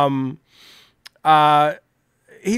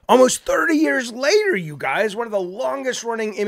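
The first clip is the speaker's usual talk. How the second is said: higher, rising anchor read; mock news host; 6 semitones higher than usual. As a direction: parody a scripted newscaster. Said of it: "I can probably do it better than they can".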